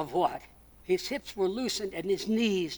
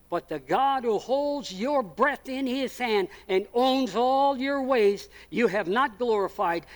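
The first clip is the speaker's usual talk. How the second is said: slow solemn verdict; 3 semitones higher, 5 dB louder, slower than usual. Acted. Preacher reads verdict with force.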